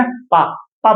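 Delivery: पा with both lips pressed shut first; slow demonstration of पा, lips meeting on the P; lips-together P sound. Shown as a demonstration. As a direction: join both lips, then release पा slowly. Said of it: "पा में हमारे दोनों ओंठ जुड़ रहे हैं".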